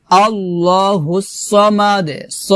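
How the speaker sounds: slow recitation, heavy "saw" in "সামাদ"; recited model. Shown as a demonstration. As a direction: draw it out with a dark s in "সামাদ". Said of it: "স হবে".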